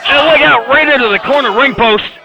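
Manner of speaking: sudden high excited shout; excited call. Real, not acted. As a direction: call it out like a big spot.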